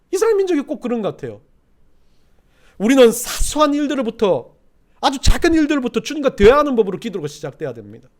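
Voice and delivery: high, loud, driving sermon delivery; impassioned preaching. Acted. Preacher warns the congregation that prayer disappears, impassioned preaching. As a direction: preach it at full force.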